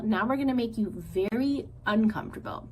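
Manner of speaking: a hint of menacing sister bear threat; lightly voiced sister bear. Said Nettle.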